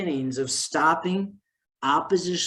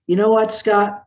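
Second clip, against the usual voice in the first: parents exclaiming; 5 semitones higher, 7 dB louder than usual. Retold or imitated. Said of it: "they said".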